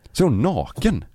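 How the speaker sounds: ordinary delivery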